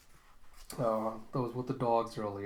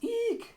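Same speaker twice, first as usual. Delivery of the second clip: very high cartoon "eek"; short squeal. Madam as Zapan comes at her, high mock squeal. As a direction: squeak it sharply in mock fright. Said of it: "and she goes".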